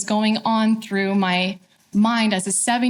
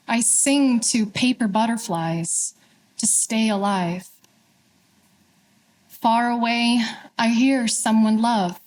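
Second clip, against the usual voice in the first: measured poetry reading with long pauses between lines; unhurried, deliberate verse, falling at line ends; poem recitation. Acted. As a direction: recite it line by line, letting each phrase settle.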